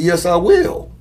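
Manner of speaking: loud, high snap back; firm retort. Retold or imitated. Man answering her promise, loudly. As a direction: shut her down flat out.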